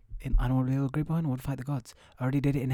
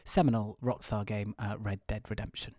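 hushed reviewer voice; 4 dB louder than usual. Acted. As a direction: murmur it like a late-night video game show host. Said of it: "I enjoy doing that voice".

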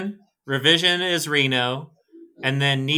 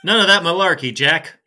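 put-on old man voice; 6 semitones higher, 8 dB louder than usual. Joining the old man bit.

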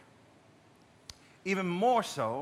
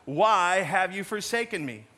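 raised-voice plea, retold with force; crying out; 5 dB louder, slower than usual. Preacher quoting Jesus on the cross, lightly acted loud cry. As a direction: cry out louder, easing toward the end. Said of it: "cried out in a loud voice".

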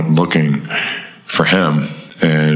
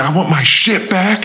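mock aggrieved demand; 14 semitones higher than usual. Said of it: "I made up a lie".

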